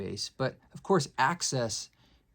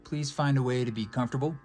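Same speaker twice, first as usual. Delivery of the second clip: calm, measured meditation guide with long pauses; guided meditation; 5 dB louder than usual. Acted. Musician leading listeners to breathe and drop in, guided meditation. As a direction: ease listeners into stillness, unhurried.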